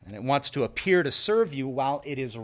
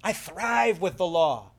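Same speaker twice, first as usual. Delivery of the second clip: loud, higher triumphant crowing; sin gloating; 6 semitones higher, 7 dB louder than usual. Acted. Sin taunts the defeated believer, triumphant gloating. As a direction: gloat like a trickster who has won. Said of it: "And sin says".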